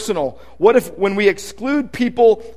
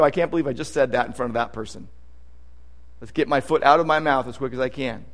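hushed, quick embarrassed self-talk; embarrassed mutter; 8 semitones lower, 7 dB quieter, faster than usual. Retold or imitated. Preacher mimics a blurted slip, a hushed embarrassed mutter. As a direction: mutter it fast under your breath, mortified.

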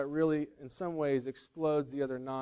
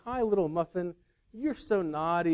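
playful mock coo to a muffin, pitched up; half-imitate a comic salesman teasing his pet muffin, higher voice; Chris Farley; 4 semitones higher, 3 dB louder than usual. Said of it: "not gonna do a good Chris Farley impression".

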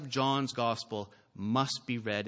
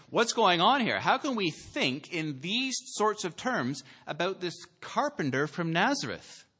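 higher, louder, astonished questioning; incredulous questioning; 7 semitones higher, 5 dB louder than usual. Acted. Preacher voicing his listeners' question about Jesus, incredulous. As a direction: ask it in loud, high disbelief.

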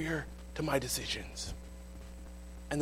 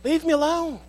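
higher, louder snap; mock teen outburst; angry outburst; 11 semitones higher, 7 dB louder than usual. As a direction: fling it back in anger. Getting mad.

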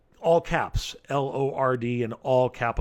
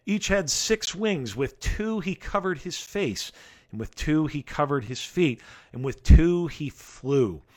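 scripture reading. Acted. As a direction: read it like a solemn proclamation. Reads scripture aloud.

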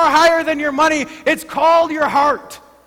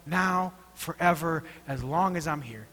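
quiet sincere prayer; 8 semitones lower, 9 dB quieter than usual. Pretend. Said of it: "to say".

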